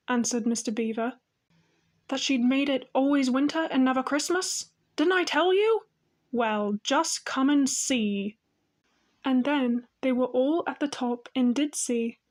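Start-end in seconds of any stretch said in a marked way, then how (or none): 2.1-8.4 gleeful. Acted. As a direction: crow with glee, then invite. Excited beaver triumphant.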